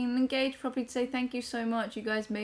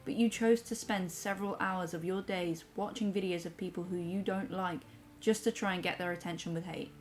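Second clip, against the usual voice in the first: measured, softer read-aloud; reading a message aloud; 3 dB quieter than usual. Acted. Reads a viewer's comment aloud.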